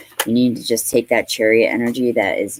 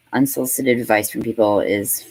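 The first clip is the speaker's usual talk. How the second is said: sarcastic. Acted.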